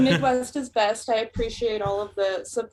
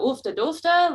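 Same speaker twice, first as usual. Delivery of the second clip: put-on Minnesota accent; 4 semitones higher than usual. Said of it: "If it's really big, you go".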